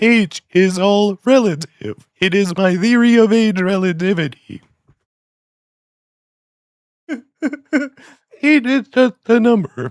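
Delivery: mechanical, robot-like voice. Doing a joke impression in a robot voice: Stephen Hawking robot voice. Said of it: "in a robot voice".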